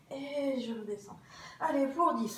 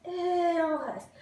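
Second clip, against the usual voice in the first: straining under effort; 5 semitones higher, 6 dB louder, slower than usual. Real, not acted. Holding the ab contraction.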